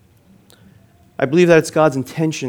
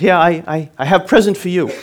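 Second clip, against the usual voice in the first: imitated broken English, raised in pitch; higher, louder mock broken accent; 5 semitones higher, 4 dB louder than usual. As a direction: mimic a foreigner's halting broken English. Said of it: "he says to me in his, uh, broken accent".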